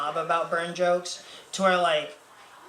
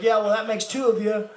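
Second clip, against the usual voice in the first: higher Southern dad voice; super Southern dad; 4 semitones higher, 4 dB louder than usual. Retold or imitated. Dad's comeback about burns, lightly voiced Southern accent. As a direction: imitate a Southern father's comeback. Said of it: "'cause he's super Southern".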